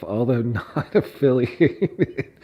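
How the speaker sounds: slow, laughing mid-phrase; reading through laughter. Real, not acted. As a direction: lose it mid-word.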